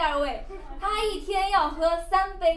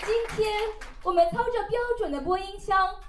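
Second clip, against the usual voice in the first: broadcast announcer voice. Acted.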